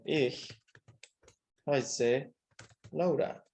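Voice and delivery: slow dictation with pauses between words; palabra por palabra. Shown as a demonstration. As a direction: say it word by word, as if writing. Escribe la respuesta palabra por palabra. (dictado pausado, palabra por palabra)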